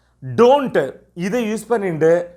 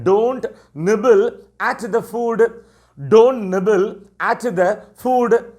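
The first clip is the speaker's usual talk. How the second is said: slow teacher model phrase; 3 semitones higher, much slower than usual. Shown as a demonstration. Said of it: "So, கொறிக்காத".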